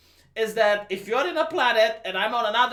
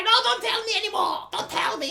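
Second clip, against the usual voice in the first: mock Rey; 11 semitones higher than usual. Mocking Rey again.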